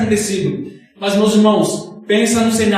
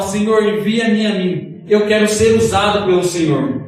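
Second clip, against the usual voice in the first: voice of authority. Retold or imitated. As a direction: say it like a calm commission you are accepting. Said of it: "com uma voz de autoridade". (Isaías responde a Deus, com um leve tom de autoridade)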